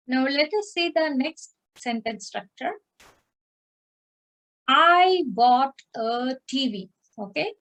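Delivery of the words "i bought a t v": slow, louder, word-by-word reading; slow teaching model. Shown as a demonstration. Teacher giving students the next sentence, slow model reading. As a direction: spell the sentence out slowly for learners.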